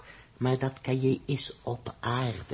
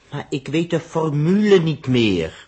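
wanhopig; 3 semitones higher, 7 dB louder than usual. Acted. Wanhopige uitroep over formule.

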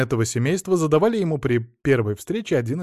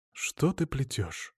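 slow, soft stern reproach; father quietly, slowly checking his daughter; stern rebuke; 7 dB quieter, much slower than usual. A narrator's reading. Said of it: "одёрнул её отец".

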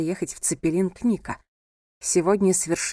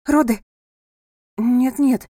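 higher and louder, alarmed; alarmed cry; 5 semitones higher, 6 dB louder, slower than usual. A narrator's reading. Friends startle over a possible birth, alarmed cry. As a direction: shout in alarm.

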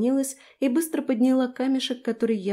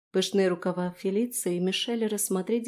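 usual speaking voice

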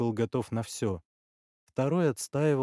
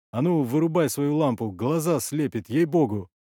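louder, annoyed demand; irritated order; 4 semitones higher, 6 dB louder than usual. Acted. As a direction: tell off the man dazzling you. Blinded man snaps at lamp holder.

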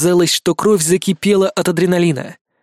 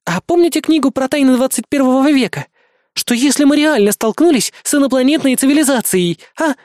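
put-on higher, offended young woman; indignant girl voice; 9 semitones higher than usual. A narrator's reading. Helen protests to the angry narrator, indignant and higher. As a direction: protest innocently, much higher.

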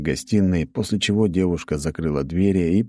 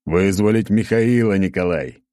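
louder impatient snap of a name; mild bark; 3 semitones higher, 4 dB louder than usual. Acted. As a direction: snap at Nikolai to pay attention. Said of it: "рявкнул Леонид".

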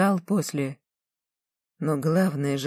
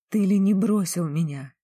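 shouting at him; 4 semitones higher than usual. Acted. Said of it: "сорвалась на крик девица".

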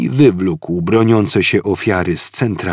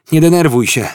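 soothing; 8 semitones higher, 6 dB louder, faster than usual. A narrator's reading. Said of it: "uspokajał Ford".

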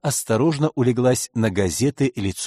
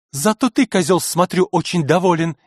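язвительно; 6 semitones higher, 3 dB louder than usual. Acted. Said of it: "бросила театральный критик".

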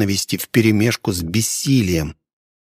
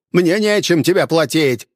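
higher, sharp furious cry; furious exclamation; 7 semitones higher than usual. A narrator's reading. Innkeeper shouting back at the hunter, furious and higher. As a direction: fling the words back in rage. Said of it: "столь же яростно воскликнул хозяин".

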